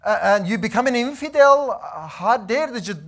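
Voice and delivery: mildly acted outraged mother scolding her son; angry mom. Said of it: "She got angry and she got mad".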